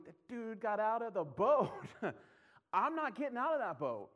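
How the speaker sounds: incredulous defense. Retold or imitated. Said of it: "I'm always in the seat going".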